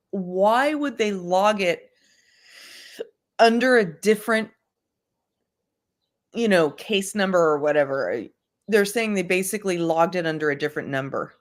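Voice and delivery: talking while holding breath; strained, breath held. Real, not acted. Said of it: "hard to hold your breath and talk".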